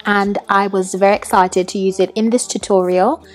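put-on British accent. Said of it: "completely in a British accent".

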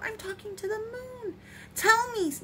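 high-pitched, thrilled storybook voice; very excited. A narrator's reading. Bear believes he is talking to the moon, very excited. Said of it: "Bear got very excited".

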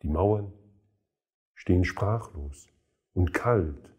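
measured poetry reading with pauses between phrases; solemn recital, line endings falling away; poem recitation. Acted. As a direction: recite the verse deliberately, letting each image stand.

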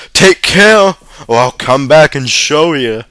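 big high yell, then easing off; shouted threat. A narrator's reading. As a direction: threaten them at full voice. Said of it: "I shouted".

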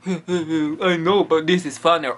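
playful smug dog voice; cheeky ghost dog reply. Pretend. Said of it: "And he's like".

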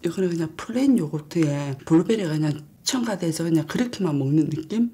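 talking behind hand; muffled by covering hand; mouth full, chewing. Real, not acted. Seen 1: Hand covers mouth while chewing bite through 4.6s, then lowered.

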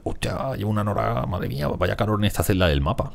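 high, put-on complaining settler; lightly voiced hot colonist. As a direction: whine about the heat in character. Voicing colonist complaining of heat.

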